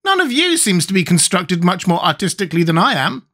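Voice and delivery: very high squeaky creature; high-pitched squeaky character; Gump's squeaky voice. A narrator's reading. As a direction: squeak it out, far above your own voice. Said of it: "continued the thing".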